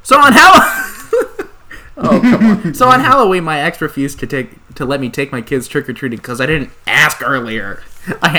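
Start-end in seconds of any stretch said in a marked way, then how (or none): 0.0-3.4 high, slow, laughing squeak; laughing squeaky voice. Acted. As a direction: giggle it out in a high silly voice. Reading post in a put-on voice.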